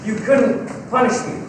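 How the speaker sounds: speaking up. Acted. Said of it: "Oh, will you speak up, please? I still couldn't hear you".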